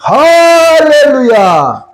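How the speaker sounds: long, slow, high and loud 할렐루야; shouted hallelujah. Real, not acted. Preacher rousing the congregation, drawn-out shouted hallelujah. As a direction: stretch it out and shout it to the rafters. Climax of sermon point.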